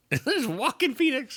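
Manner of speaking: "Joaquin" high, ending in short "kin"; the original pronunciation. Shown as a demonstration. Reminding a co-host how it was first said, "Joaquin" as "wah-kin". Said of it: "why it was originally it was Joaquin".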